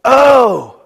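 loud high gasp of realization; a big "Oh!" as it finally clicks; sudden loud aha. Retold or imitated. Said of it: "there's a point at which you go".

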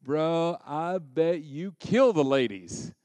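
slow, drawn-out salesman pitch; lightly voiced used car salesman; butter them up slowly like a car salesman. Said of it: "like a used car salesman".

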